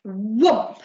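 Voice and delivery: whispered sound effect. A narrator's reading. Narrator whispers a sound effect for the story. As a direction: hiss the sound effect dramatically.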